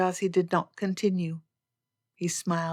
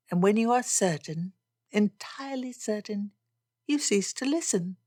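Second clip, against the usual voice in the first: Elizabeth reproaching; 3 dB louder than usual. Acted. Elizabeth reproaches Darcy for always knowing best, mildly agitated. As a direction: make her case against a proud suitor. Elizabeth's dialogue in narrated story.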